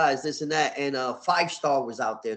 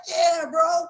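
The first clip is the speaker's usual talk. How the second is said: very high, loud affirmation; excited confirmation; 6 dB louder than usual. Retold or imitated. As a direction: shout it high to convince them. Acted excited answer to kids.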